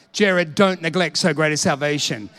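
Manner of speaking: low-pitched admonition with weight on "don't"; firmer solemn warning. Retold or imitated. Preacher repeating the warning to himself, firm and low. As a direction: repeat it firmly, leaning on "don't".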